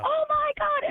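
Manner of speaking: high, stunned oh my God; retold shocked outburst; shocked gasp. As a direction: blurt it in disbelief. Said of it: "I flipped out".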